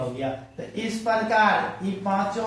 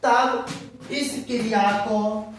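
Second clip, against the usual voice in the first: question read aloud; 2 semitones higher, much slower than usual. Shown as a demonstration. Reads exam question slowly aloud.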